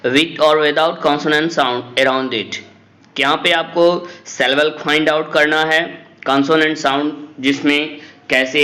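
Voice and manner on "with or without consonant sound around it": dictating a definition to a class, word by word; slow, deliberate classroom read-aloud; slow textbook reading. Acted. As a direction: read each English word out slowly and carefully.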